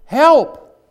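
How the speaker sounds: high, loud, slowing plea for help; crying out to God. Acted. Preacher acts the prophet calling on God, high loud begging cry. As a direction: call up to heaven, begging. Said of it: "he's crying out to God".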